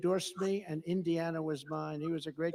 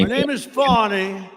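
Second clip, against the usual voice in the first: lightly put-on French accent, loud; mock French accent; 4 semitones higher, 12 dB louder than usual. Mocking the prosecutor's name with a light French accent. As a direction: sneer a fake French accent. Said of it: "She put a little French accent on the word".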